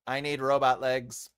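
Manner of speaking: monotone, evenly measured robot. Pretend. Host insisting it is a robot with feelings, robot voice. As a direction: speak like a machine claiming emotions. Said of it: "the robot phase a lot".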